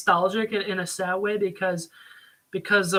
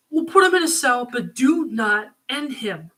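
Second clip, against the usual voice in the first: higher, louder, earnest plea, slowing at the end; pleading Matt; 3 semitones higher, 3 dB louder than usual. Retold or imitated. Matt urging Frank not to kill the criminal. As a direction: beg him to spare the man. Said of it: "He's like".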